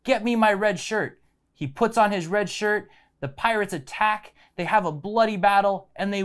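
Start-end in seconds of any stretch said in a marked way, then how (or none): 0.0-1.2 storyteller's restrained yell; mock captain's yell. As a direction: lightly act a captain calling out an order. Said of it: "And he yells".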